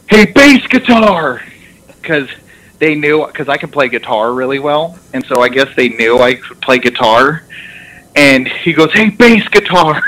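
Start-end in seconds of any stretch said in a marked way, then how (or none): 0.1-1.4 high, drawn-out call from above; imitating coach's yell. Coach yelling down at a player from the rafters, mock yell. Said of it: "he yells down". 8.9-10.0 imitating coach's yell. Coach yelling down at a player from the rafters, mock yell. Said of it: "he yells down".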